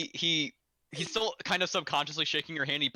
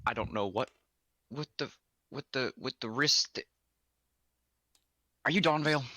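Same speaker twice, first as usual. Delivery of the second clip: weary grocer. Acted. Grocer sighs, tired questioning.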